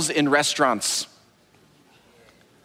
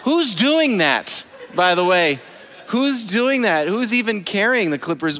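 incredulous; 4 semitones higher than usual. Real, not acted. Incredulous at nail clipping.

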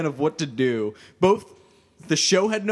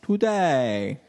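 slow, raised pompous clergyman with w for r; Princess Bride priest; 2 semitones higher, slower than usual. Acted. Quoting a wedding sermon, mock impeded priest voice. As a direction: intone it ceremoniously with a comic speech impediment. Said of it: "the priest from The Princess Bride".

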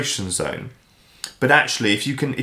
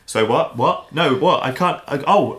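higher-pitched puzzled questions; mock confusion; 4 semitones higher, slower than usual. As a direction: act out not catching what was said. Acting out confused mishearing onstage.

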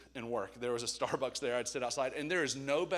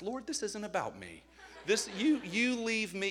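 laughing protest; 7 semitones higher, 4 dB louder than usual. Retold or imitated. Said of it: "I was like".

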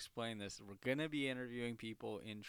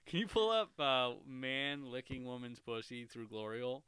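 Joe Rogan impression; 6 dB louder than usual. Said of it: "what's Joe Rogan?".

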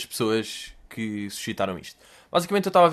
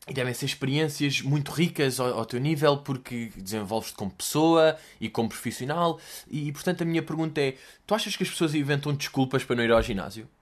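rambling interviewer tone; 4 dB quieter than usual. Retold or imitated. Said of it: "Voltando à pergunta".

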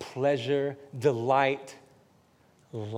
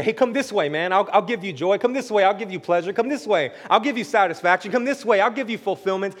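loud, much higher luring call of temptation; tempting voice; 9 semitones higher, 16 dB louder than usual. Acted. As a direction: lure them in like a tempter. Tempting voice calling listener away.

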